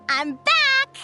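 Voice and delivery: joyful call. Acted. Arriving back in Natlan.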